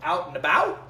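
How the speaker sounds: "Out and about?" with open "ow" vowels, questioning; trying the pronunciation. Shown as a demonstration. Host testing Canadian vowels on viewers, open-vowelled "Out and about?". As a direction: ask "Out and about?" with plain ow sounds. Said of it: "how the heck do they say that?".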